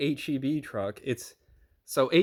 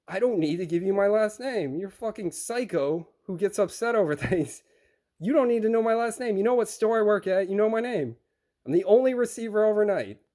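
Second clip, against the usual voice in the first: higher, indignant pushback; retold indignant refusal; 4 semitones higher than usual. Receiver refusing driver his last name, retold indignation. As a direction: push back at a pushy driver, mildly heated.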